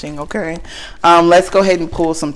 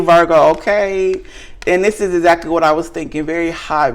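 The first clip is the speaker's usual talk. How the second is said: ordinary talk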